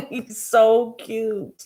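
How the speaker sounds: slow drawn-out adoring gush; overwhelmed by cuteness. Real, not acted. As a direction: linger on it, adoring. Gushing over cute cat.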